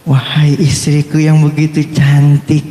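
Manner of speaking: slow, flowery mock praise; doting husband. Husband praises his wife on waking, hammed-up adoration. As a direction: draw out the compliment like recited poetry.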